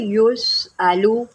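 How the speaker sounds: drawn-out melodic Quran recitation; slow tajweed recitation. Shown as a demonstration. Quran teacher recites the verse slowly for her pupils.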